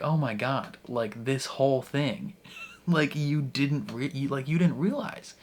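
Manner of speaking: giggling through the words; a stunned, laughing realization; half-laughing disbelief. Retold or imitated. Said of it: "she almost starts to laugh".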